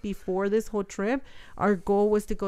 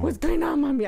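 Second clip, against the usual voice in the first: put-on child's voice; 6 semitones higher than usual. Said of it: "He was just like".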